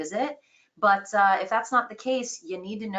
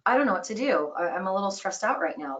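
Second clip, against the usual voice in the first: stressed customer. Acted. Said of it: "'cause I'm emotional".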